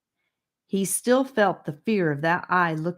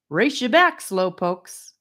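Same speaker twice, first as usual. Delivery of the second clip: playful challenge; 3 semitones higher, 4 dB louder than usual. Acted. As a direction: tease them into a race. Gabe playfully challenging friends.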